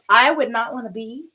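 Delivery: too loud, she catches herself shouting. Real, not acted. Yoga teacher ranting to viewers, shouting. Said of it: "sorry, I think I'm shouting".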